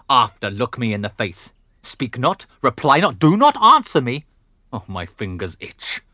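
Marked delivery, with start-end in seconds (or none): 1.8-4.3 rising from firm to a loud, higher shout; building fury. Acted. Father silencing his daughter, building to an angry shout. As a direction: cut her off harder with each order.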